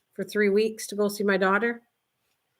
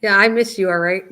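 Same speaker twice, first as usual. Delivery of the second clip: excited greeting; 6 dB louder than usual. Real, not acted. Talking to her dog, laughing.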